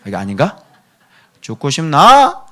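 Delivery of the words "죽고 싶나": high, loud, slow Gyeongsang dialect threat, laughing; Gyeongsang accent. Shown as a demonstration. Pastor tries the Gyeongsang dialect, laughing. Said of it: "경상도 사투리".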